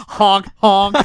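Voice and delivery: laughing honk honk; goofy clown horn noises; silly clown. Pretend. Mock groping joke.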